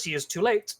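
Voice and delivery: ordinary talk, nothing marked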